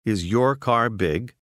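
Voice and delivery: slow question, leaning on "your", rising at the end; emphatic question. Shown as a demonstration. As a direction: stress on "your". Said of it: "ask you emphatically".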